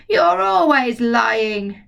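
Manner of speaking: put-on slow, scolding old woman; grandma yelling. Grandma yelling down at George, slow and scolding. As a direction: drag out the accusation. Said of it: "Grandma yelled".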